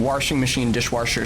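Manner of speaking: washing said as "warshing", dishwasher as "dishwarsher"; mom's intrusive-r "warsh" in washing; regional warsh pronunciation. Retold or imitated. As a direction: put an r into the wash of washing and dishwasher. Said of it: "the Warsh thing".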